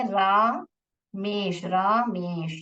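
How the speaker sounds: रामेश drawn out slowly as रा-मेश; teacher slowly sounding out रामेश; syllable-by-syllable. Shown as a demonstration. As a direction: stretch the long रा in रामेश, then मेश. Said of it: "रमेश का spelling देखिए".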